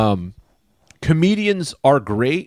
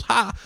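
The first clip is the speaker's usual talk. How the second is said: single high mock "ha"; one short put-on laugh, pitched up; imitated laugh; 8 semitones higher, 3 dB quieter than usual. Audience lady laughing at the comedian, imitated high laugh.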